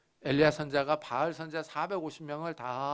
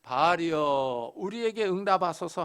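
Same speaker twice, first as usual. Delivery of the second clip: invocation of Baal. Retold or imitated. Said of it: "바알의 이름을 부릅니다".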